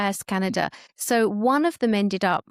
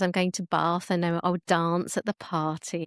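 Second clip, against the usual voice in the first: put-on British accent; 3 semitones lower than usual. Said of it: "And now she says".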